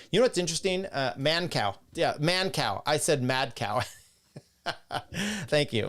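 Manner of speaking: ordinary talk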